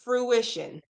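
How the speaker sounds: "Fruition" sounded out slowly and carefully; careful pronunciation. Shown as a demonstration. Crafter tackling a word they always mess up, careful pronunciation. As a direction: ease carefully through "Fruition". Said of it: "I'm gonna say it slowly".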